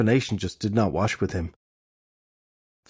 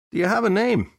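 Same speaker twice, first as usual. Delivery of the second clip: bright curious question; 11 semitones higher, 3 dB louder than usual. A narrator's reading. High questioning.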